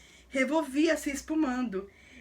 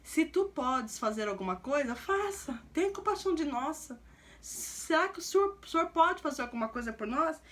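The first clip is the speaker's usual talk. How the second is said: pleading father. Retold or imitated. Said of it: "Olha o pai".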